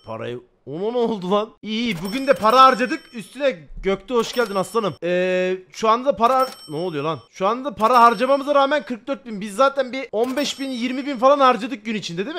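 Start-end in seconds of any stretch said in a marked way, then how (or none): none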